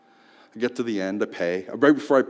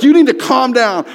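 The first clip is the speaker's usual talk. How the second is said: mock sister scolding; 8 semitones higher, 8 dB louder than usual. Sister retold, laughing.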